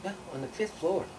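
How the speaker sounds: clerk's voice. Retold or imitated. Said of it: "And she goes".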